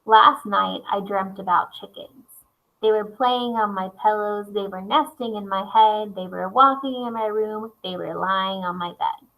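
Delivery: steady, even poem reading; a simple first read of the poem; poem read aloud. Shown as a demonstration. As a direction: read the verse straight through. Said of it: "So listen while I read".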